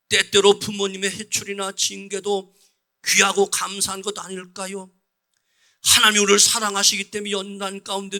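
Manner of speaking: loud, fervent sermon climax; full-force preaching. Real, not acted. Pastor exhorting the church to self-love, fervent and loud. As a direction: proclaim it like the closing exhortation.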